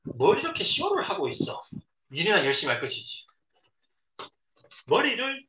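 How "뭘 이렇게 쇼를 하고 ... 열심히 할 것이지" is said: displeased. Acted. Director at the welcome party on the pier, displeased. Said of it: "못마땅한 듯".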